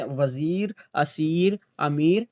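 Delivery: वज़ीर, असीर, अमीर with a long "ee"; teacher's demo of long "ee" in वज़ीर, असीर, अमीर; long maroof vowel. Shown as a demonstration. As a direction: hold the "eer" ending of वज़ीर, असीर, अमीर. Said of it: "खूब खींच कर पढ़ी जाती है".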